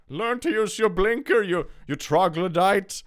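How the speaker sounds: high, loud rant at another driver; mock traffic yell. Driver to a careless motorist in traffic, mock yelling. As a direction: yell an exasperated insult, hammed up. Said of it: "I never yell at anyone else in the car".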